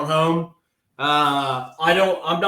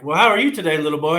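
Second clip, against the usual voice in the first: camp attendant; faster than usual. Acted. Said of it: "I'd be like".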